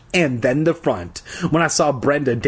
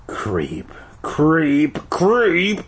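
echoing in the mind; 3 semitones higher, much slower than usual. A narrator's reading. Insult replaying in the boy's head, climbing echo. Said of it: "The word repeated and repeated in my mind".

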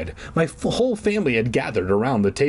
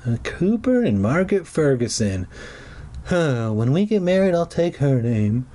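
joking aside. Real, not acted.

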